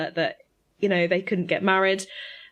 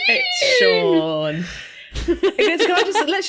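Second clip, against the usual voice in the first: high, loud laughing exclaim; laughing excitedly; 11 semitones higher, 7 dB louder, slower than usual. Real, not acted. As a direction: squeal it through laughter. Excited laughing about Sean Bean.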